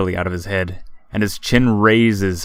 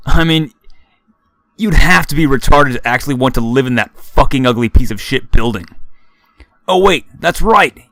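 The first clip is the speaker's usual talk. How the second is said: loud, higher sneering bully; mocking frat boy; 4 semitones higher, 5 dB louder than usual. A narrator's reading. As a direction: taunt him, cruel and smug. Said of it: "Freckled frat boy says".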